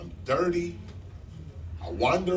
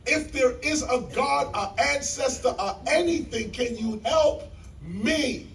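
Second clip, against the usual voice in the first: raised, higher voice calling upward; desperate prayer; 6 semitones higher than usual. Retold or imitated. Homeless man asking God for help, raised plea. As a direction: plead with whatever is out there.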